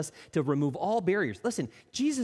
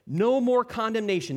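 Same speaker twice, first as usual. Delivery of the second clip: emphatic proclamation; 6 semitones higher, 5 dB louder than usual. Acted. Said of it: "Romans eight says there's no more condemnation".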